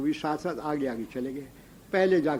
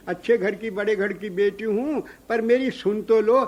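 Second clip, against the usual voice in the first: indignant loud protest; 5 semitones higher, 5 dB louder than usual. Acted. Gopi protests loudly to Yashoda.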